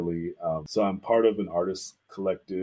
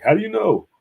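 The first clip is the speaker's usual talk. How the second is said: shrill, much higher, louder disbelief; retold surprise; 13 semitones higher, 8 dB louder than usual. To the art teacher, amazed he guessed right-handed. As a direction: gasp it out, truly caught off guard. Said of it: "I'm like".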